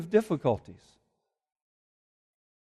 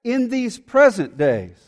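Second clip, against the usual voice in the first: lament reading. Acted. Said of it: "And it says".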